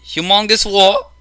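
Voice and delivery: mock indignant squawk; mock screaming. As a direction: imitate a screaming accuser, half-strength.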